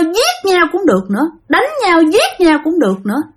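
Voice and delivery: ghost woman. Acted. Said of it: "Bà này bả nói rằng á là". (giọng bà ma chế giễu, hơi cao)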